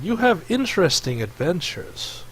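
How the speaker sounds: lightly voiced snake creature, slow questioning; Snake Face. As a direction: draw the question out slowly in light character.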